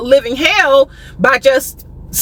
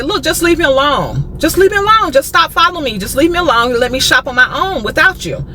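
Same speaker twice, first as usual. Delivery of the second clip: raised-pitch, insistent retold demand; firm and stern; 4 semitones higher than usual. Shopper telling a pushy salesman to back off, firm and stern. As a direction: firmly tell him off, pitch pushed up. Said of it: "I'm gonna be firm, I'm gonna be stern".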